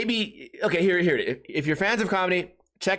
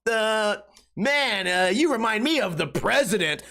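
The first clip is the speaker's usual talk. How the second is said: slowed, drawn-out dopey joke delivery; hammed-up bad punchline; mock hacky comic; 5 semitones higher, slower than usual. Podcaster parodying terrible pop culture jokes, hammed-up.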